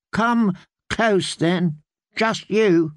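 put-on high, slow, whiny little boy; a frail child calling from bed; sickly boy voice. Boy lord voiced in story.

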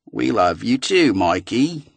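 put-on a crappy Australian accent, synthetic and even; robotic voice with a bad Australian accent; an Australian-accented computer voice calling at night; bad Australian text-to-speech. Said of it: "had a crappy Australian accent".

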